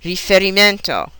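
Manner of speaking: "riferimento" as ri-fe-ri-MEN-to; stress fourth syllable. Shown as a demonstration. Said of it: "on the fourth syllable".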